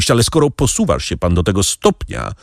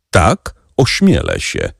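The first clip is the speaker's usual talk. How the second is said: calm contrasting tone; 7 semitones lower, slower than usual. A narrator's reading. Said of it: "tonem, który dość szczególnie kontrastował".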